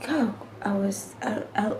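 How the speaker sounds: hushed and shaken; whispered, overcome. Real, not acted. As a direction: voice drops to a breathy whisper. Overcome recalling near death.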